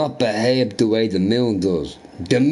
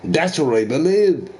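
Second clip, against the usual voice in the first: tipsy professor; 3 semitones higher, slower than usual. Retold or imitated. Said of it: "He's like".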